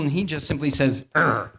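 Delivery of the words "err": low, loud mock grumble; disgruntled grunt. Taxpayer who has just paid up, disgruntled grunt. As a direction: grunt in acted displeasure. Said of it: "he's also disgruntled".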